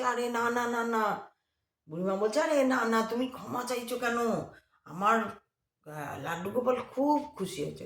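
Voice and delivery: joyful reassurance. Retold or imitated. Old woman joyfully reassures.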